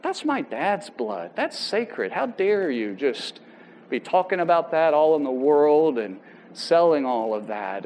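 a mocked-up furious hiss of disbelief; indignant outrage. Son hearing his shot dad's blood on the news, hushed indignant outrage.

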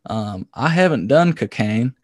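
slow Southern drawl; Southern accent. Pretend. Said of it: "I'm gonna employ my Southern accent".

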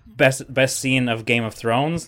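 loud, high excited burst. Real, not acted. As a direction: blurt it out thrilled. Excited about dragons.

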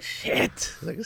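whispered curse. Retold or imitated. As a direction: breathe the word unvoiced. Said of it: "I was like".

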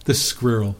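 "squirrel" in an English accent, two syllables; English-accented "squirrel", every letter pronounced. Shown as a demonstration. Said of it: "say it in an English accent".

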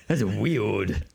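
speech-impaired superhero, muddled R in "weird"; Batman. Acted. Batman denies knowing Bruce.

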